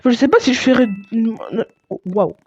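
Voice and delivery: stumbling over the words; halting, stammered speech; stuttering. Real, not acted. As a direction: trip and restart mid-sentence. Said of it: "Je bégaye beaucoup".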